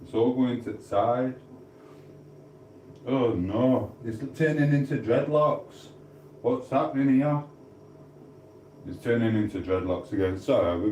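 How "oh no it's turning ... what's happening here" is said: high, fake alarmed squeal; playful high-pitched panic; mock dismay. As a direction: act horrified at the hair. Mock panic over hair.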